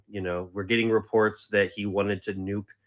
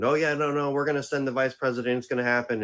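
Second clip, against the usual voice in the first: higher, fast, eager fake reassurance; mock bluster; 5 semitones higher, faster than usual. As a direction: play the flustered official insisting. Mocking US officials' bluster.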